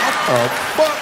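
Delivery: high, startled what the fuck; shocked outburst. Retold or imitated. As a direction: blurt it out caught red-handed. Shocked again.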